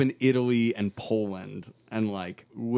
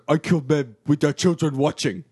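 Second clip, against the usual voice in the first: lightly voiced Mac; 4 dB louder than usual. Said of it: "where he says".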